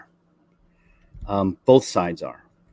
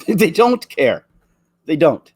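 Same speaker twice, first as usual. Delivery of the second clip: "They don't care" drawn out slowly and higher through a laugh; laughing disbelief; 5 semitones higher, 4 dB louder, slower than usual. Real, not acted. Vlogger laughs bitterly at Hollywood's indifference, slow laughing.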